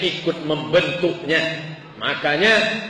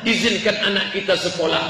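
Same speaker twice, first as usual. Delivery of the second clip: imitated husband's angry rebuttal, voice raised; bapak ngamuk; 5 semitones higher, 3 dB louder than usual. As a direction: act a father arguing back heatedly. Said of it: "akhirnya si bapak ngamuk". (menirukan bapak yang mulai mengamuk)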